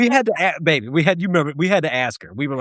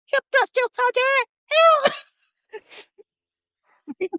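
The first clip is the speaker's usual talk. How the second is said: very high falsetto recruit voice; girl impression. Female recruit answering drill sergeant, squeaky falsetto impression. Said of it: "his universal girl impression".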